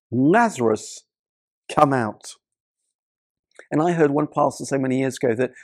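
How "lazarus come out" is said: calling a dead man out of the tomb, only slightly raised; a mild, steady call of the name; loud call. A narrator's reading. Jesus calls Lazarus from the tomb, lightly raised call. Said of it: "called out in a loud voice".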